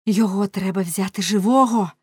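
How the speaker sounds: loud, urgent command; woman's insistent cry; shouting. A narrator's reading. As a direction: call out forcefully to stop him. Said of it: "крикнула вона".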